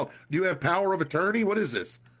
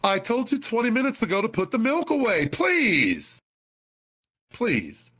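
hint of a scolding mom; mock motherly telling-off; mom impression; 4 semitones higher than usual. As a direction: nag lightly as an exasperated mother. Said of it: "Here's my impression of my mom".

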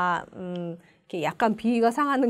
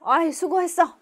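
praising adult; 5 semitones higher, 4 dB louder than usual. Shown as a demonstration. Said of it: "막 이런 얘기 어른들 하잖아요".

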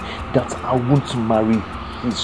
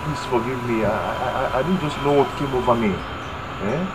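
desperate pleading. Acted. Man begging on knees, pleading.

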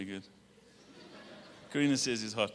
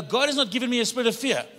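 1 loud declaration; 6 semitones higher, 5 dB louder than usual. Shown as a demonstration. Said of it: "you're gonna do the boom".

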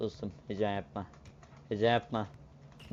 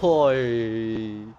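excited shout; 9 dB louder than usual. Real, not acted. Excited reaction in game.

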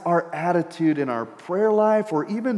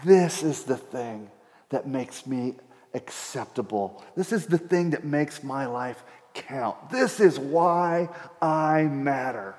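inner boast; 3 semitones lower, 4 dB quieter, slower than usual. Retold or imitated. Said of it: "you say".

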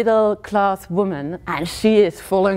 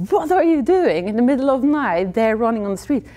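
higher-pitched incredulous questioning; mock-scold her like a worried protector; imitated scolding; 5 semitones higher than usual. Alarmed gatekeeper scolds her by phone.

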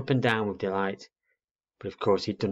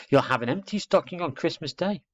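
put-on high childlike voice; warning little girl; 8 semitones higher than usual. Little girl warning owlet about Father Christmas, emphatic. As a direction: warn him with childish certainty.

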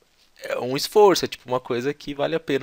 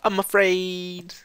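very slow "I'm afraid" lightly pitched up; little-girl voice; 5 semitones higher, much slower than usual. Shown as a demonstration. Teacher mimicking the speaker's girlish line. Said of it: "parece uma menininha falando".

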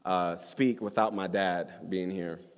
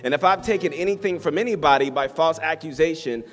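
measured, emphatic Bible reading; scripture reading; 5 semitones higher, 4 dB louder than usual. Acted. Pastor reading Luke nineteen to the church, proclaiming scripture. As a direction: read it out deliberately to a congregation. Reads scripture aloud to congregation.

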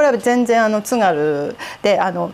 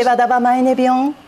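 Tsugaru dialect; faster than usual. Shown as a demonstration. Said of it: "これが津軽".

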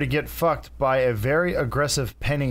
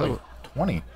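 laughing; 5 dB quieter than usual. Real, not acted. Laughing over long-running gag.

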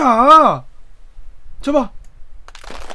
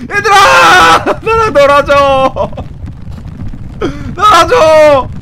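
mock crying plea; slower than usual. Left-out player wails at kids to play with him, fake sobbing. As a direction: wail like a left-out child.

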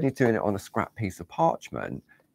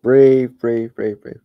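breathe out; 5 semitones higher, 10 dB louder, slower than usual. Real, not acted. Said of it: "I'm holding my breath".

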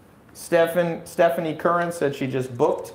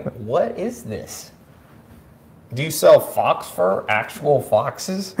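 baffled; much slower than usual. Retold or imitated. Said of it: "but I'm just going".

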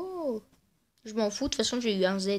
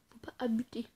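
softer whispered echo; whispered repeat; 9 dB quieter than usual. Shown as a demonstration. Gamer repeats the warning to himself, whispering. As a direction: repeat it under your breath. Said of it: "oh, faut pas abuser".

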